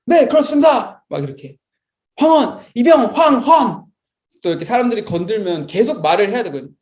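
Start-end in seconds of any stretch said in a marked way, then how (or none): 0.0-1.0 high, loud military reply; nervous new recruit. Retold or imitated. Tense private answering higher ranks, acted nervous military bark. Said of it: "엄청 긴장해가지고". 2.1-3.8 high, loud recruit's roll call; shouted name report. Retold or imitated. Private poked by seniors, acted shouted name report. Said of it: "계속 선생님 이름을 막 외쳐야".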